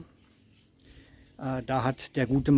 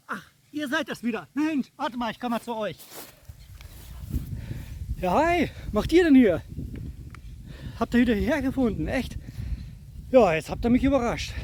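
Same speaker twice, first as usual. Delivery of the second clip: cave echo; 9 semitones higher than usual. Pretend. Pretends to meet viewers by surprise.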